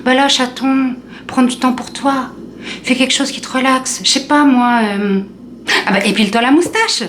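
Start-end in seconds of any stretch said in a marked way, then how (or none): 0.0-5.2 lightly voiced sweet friend, higher pitch; friend Isa. Friend Isa advising Julie after the breakup, higher and cooing. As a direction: coo it like a cheesy self-care friend. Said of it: "elle m'a dit un truc hyper bizarre".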